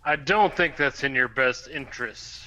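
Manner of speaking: loud, slow warning yell. Acted. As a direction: yell the threat slowly. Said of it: "I yell".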